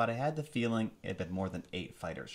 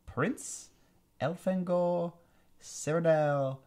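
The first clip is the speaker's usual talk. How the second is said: high, slow sneering alien villain; 8 semitones higher, 5 dB louder, slower than usual. Acted. Alien commander gloating over captured prince, high sneering villain voice. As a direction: savor every word like a gloating tyrant. Visser voice.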